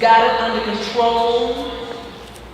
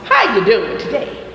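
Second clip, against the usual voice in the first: mom's greeting. Retold or imitated. Teacher greets class like mom used to, lightly imitated greeting. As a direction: lightly echo how your mom says hello. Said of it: "Like my mom used to say".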